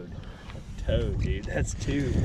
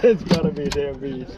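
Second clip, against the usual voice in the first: laughing; 5 dB louder than usual. Real, not acted. Laughing at huge catch.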